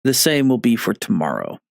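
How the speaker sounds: numb half face; talking with a numb mouth; numb from the dentist. Real, not acted. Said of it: "half my face is numb".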